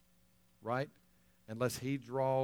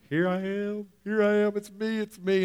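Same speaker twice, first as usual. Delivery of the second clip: high, loud cry of here I am; man at the altar call calling out to the pastor, high and loud; 7 semitones higher, 5 dB louder than usual. Retold or imitated. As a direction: call out to the pastor across the church, overjoyed.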